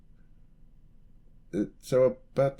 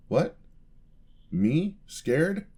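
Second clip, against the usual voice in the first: indignant surprise; 7 semitones higher, much slower than usual. Acted. Denying being scared.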